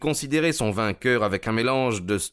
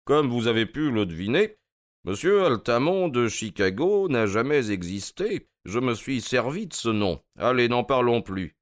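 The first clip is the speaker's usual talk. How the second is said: lightly voiced detective, higher pitch; a hint of breezy superiority; Holmes, lightly amused; 5 semitones higher than usual. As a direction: explain it with easy nonchalance.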